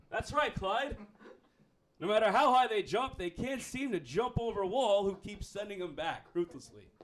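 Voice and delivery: lightly voiced play-by-play man; sports co-commentator. Co-commentator answering Clyde on air, announcer patter.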